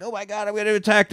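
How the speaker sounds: high, rapid fretting; mock panic. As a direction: gabble it like a panicking movie victim. Voices panicking character in cave.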